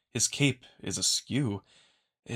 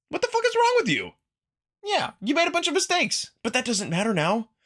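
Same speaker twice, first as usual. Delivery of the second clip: much higher and louder, yelling in outrage; furious pep talk yell; 6 semitones higher, 5 dB louder than usual. Acted. Marco yelling at the wolf to fight for the throne, furious. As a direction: tear into him to make him fight.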